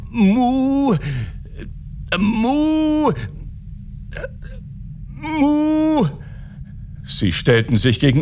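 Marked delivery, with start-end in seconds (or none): 0.1-6.1 high, long-held mooing syllable; groping for magic word. A narrator's reading. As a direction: try the spell in a high, drawn-out moo. Caliph gropes for forgotten magic word. (hohes, lang gezogenes Muhen)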